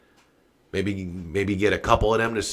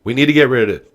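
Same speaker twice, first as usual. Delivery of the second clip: fired up; 3 semitones higher, 4 dB louder than usual. Real, not acted. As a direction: yell it at the president, all fired up. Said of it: "I'm getting a little fired up".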